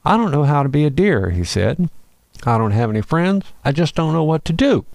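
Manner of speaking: tearful little deer, voice catching; lost fawn weeping about having no friends; crying. Acted. Young deer crying alone in the field, tearful. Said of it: "He began crying".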